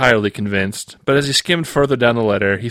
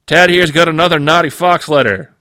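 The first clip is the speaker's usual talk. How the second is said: loud, higher, gleeful announcement; announcing loudly; 7 semitones higher, 7 dB louder than usual. Acted. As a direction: shout the news to the office. Supervisor announces to office.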